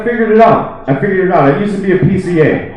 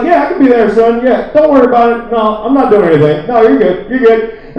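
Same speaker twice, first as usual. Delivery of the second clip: higher, breezy phone chat; feigned phone reassurance; 4 semitones higher than usual. Acted. Man reassuring a baffled friend on a faked call, feigned reassurance. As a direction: keep up the fake call, pitched up.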